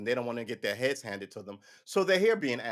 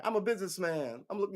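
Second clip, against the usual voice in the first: mock businessman; 6 semitones higher, 3 dB quieter than usual. Plays undercover businessman.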